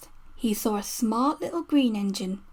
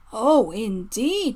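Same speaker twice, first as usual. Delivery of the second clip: very slow, stern and weighty; severe; 3 dB louder, much slower than usual. Acted. Fat Controller severely answering the cheeky engines, slow and stern. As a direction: draw it out like a warning. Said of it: "said the Fat Controller severely".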